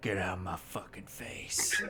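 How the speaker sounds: muttered under breath. Voicing a character as the others pile into the vehicle: muttered under breath. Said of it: "you just hear him mutter-, muttering it under his breath".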